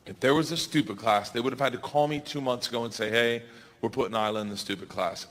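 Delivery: understated tender mom; tender reassurance. Retold or imitated. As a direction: hush a worried child. Mother reassuring daughter.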